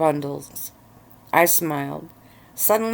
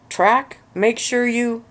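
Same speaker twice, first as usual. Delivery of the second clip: high, chanted in unison; group in unison; 6 semitones higher, slower than usual. A narrator's reading. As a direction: chant it like a whole room together. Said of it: "The entire room finished in unison".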